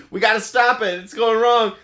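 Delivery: high, urgent alarm from the scientists; mock panic. Scientists stopping the experiment on Steve, hammed-up panicked call. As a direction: sound like the lab is going wrong.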